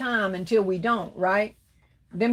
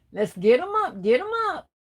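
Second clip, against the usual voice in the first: excited call; 7 semitones higher than usual. Real, not acted. Hyping viewers for thumbs up.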